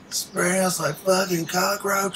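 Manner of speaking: high, slow, indignant cry; way-up slow outraged exclamation; outraged outburst. Real, not acted. Outburst about spraying.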